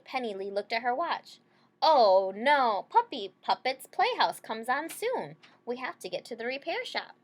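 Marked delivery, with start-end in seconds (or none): 1.8-7.2 loud, higher "oh no" in alarm; alarmed outburst. Acted. Girl alarmed about missing her show, loud and higher. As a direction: burst out in sudden worry.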